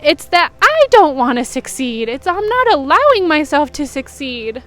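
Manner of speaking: getting emotional. Real, not acted. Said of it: "Excuse me when I get emotional".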